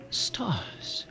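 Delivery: hushed wonder at the stars; awed whisper. Acted. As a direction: let the word fall away in awe. Realizing they see stars.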